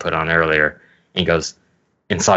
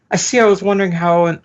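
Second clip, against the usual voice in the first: Sanji voice; 12 semitones higher, 4 dB louder, faster than usual. Retold or imitated. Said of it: "that's how Sanji sounds".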